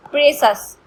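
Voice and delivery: प्रेसस as two syllables, "PRE-sus"; "-sus" ending. Shown as a demonstration. Teacher giving an example, प्रेसस ending in "-sus". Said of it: "pronunciation होता है सस होता है".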